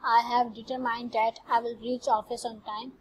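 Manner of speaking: each English word laid out very slowly for the class; slow example reading. Shown as a demonstration. Teacher reading an English example to the class, very slow and careful. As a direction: read it out word by word, like dictation to students.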